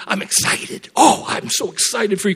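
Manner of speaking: mildly acted delight for someone; eager, thrilled for the listener; Spirit of God. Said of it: "he said".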